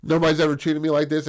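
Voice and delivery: quick, lightly disbelieving line; disbelief. Retold or imitated. Woman stunned at being treated well, in mild disbelief. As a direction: rattle it off as if she can't believe it. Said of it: "In disbelief".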